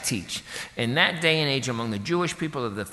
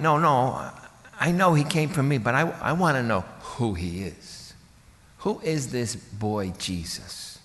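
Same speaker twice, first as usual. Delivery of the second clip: wondering mother. Acted. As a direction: puzzle over who your son really is, lightly acted. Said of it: "She's gotta be wondering".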